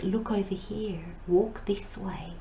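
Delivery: soft, slowing inner whisper. Acted. Inner guidance nudging a listener past the yelling mind, whispered. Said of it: "there's this whisper".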